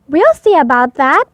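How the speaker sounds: stubborn little vow. Acted. Portly defying his parents, mildly stubborn. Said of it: "and stomped off".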